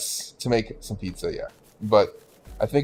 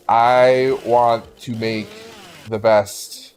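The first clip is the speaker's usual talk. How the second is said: proud chef voice; 4 dB louder, much slower than usual. Retold or imitated. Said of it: "some Japanese guy to just be like".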